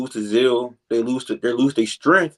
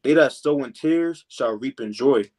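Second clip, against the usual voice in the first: slow scripture reading; slower than usual. Shown as a demonstration. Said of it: "I'm gonna read verse five again".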